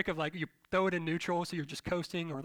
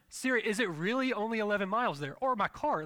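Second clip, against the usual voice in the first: higher, distrustful questioning; acted anxious doubt; 4 semitones higher, 4 dB louder than usual. Driver doubting Siri's mileage, higher anxious questioning. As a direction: question it in mock panic.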